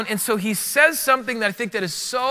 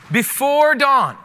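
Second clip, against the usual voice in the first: slow, weighty BEFORE dawn; slow stressed words; 3 semitones higher, slower than usual. Shown as a demonstration. Pastor stressing the two words to congregation, slow and weighty. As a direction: lean hard on Before dawn, slowly. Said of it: "It was the words".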